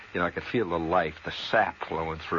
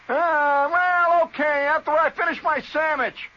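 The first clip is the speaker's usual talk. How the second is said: high, loud drawn-out shout from indoors; hollered reply; 7 dB louder, slower than usual. Retold or imitated. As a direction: shout the excuse back lazily but loud. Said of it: "You holler from inside the house".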